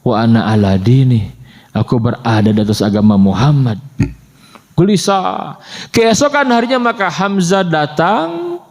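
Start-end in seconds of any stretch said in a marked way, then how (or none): 0.0-3.8 lower, inward, thoughtful repeat; pondering recollection. Retold or imitated. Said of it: "Memikirkan yang dia ucapkan".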